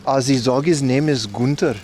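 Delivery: lightly put-on German accent; imitated German lady's accent. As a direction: retell it in a mock German accent. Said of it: "It's supposed to be German".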